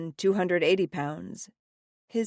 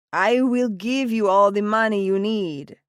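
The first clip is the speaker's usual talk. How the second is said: commanding father; 4 semitones higher, 6 dB louder than usual. A narrator's reading. Father insists loudly.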